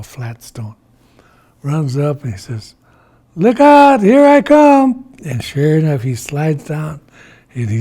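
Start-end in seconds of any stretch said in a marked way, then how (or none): 3.4-5.0 high, loud holler; whooping as he launches downhill; excited shout. Acted. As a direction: call out a gleeful warning, drawn out. Iktomi calls out as he slides.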